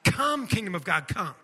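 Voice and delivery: firm proclamation; measured, commanding prayer; declaration. Shown as a demonstration. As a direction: declare it with weight on COME. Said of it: "declare it over your life".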